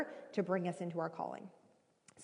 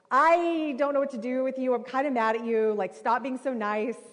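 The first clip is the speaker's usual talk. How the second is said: louder, playfully cross; mock annoyance; 4 semitones higher, 5 dB louder than usual. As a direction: grumble it like you're caught off guard. Mock anger at kindness.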